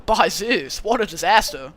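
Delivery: laid-back surfer dude take; easygoing, relaxed satyr dude; cool dude voice. Acted. Streamer retrying the satyr's line as a lightly voiced cool dude. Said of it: "I'll give him, like, a cool dude voice".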